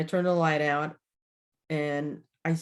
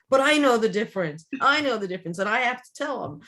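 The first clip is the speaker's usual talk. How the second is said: insistent protest; 5 semitones higher than usual. Retold or imitated. Protesting daughter in retold story.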